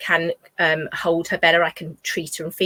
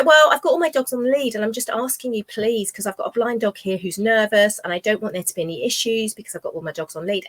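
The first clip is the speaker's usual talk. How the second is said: firm retort; 3 semitones higher than usual. Retold or imitated. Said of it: "And I said".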